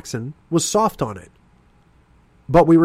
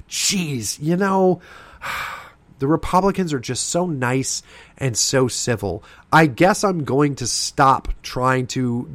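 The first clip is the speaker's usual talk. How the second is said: mock smug liberal; 4 semitones higher than usual. Liberals imagined mocking nice Republicans, sarcastic sigh. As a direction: sneer it like a liberal pretending to be won over. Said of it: "turn around and go".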